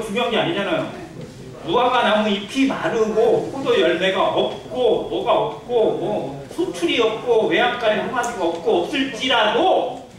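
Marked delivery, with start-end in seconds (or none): 1.6-3.5 slow, stretched "무화과나무 잎이 마르고"; drawn-out recitation. Shown as a demonstration. Preacher listing Habakkuk's losses before the main point, drawn-out. Verse recited as unimportant list. 3.5-10.1 drawn-out list. Shown as a demonstration. Listing losses up to key word.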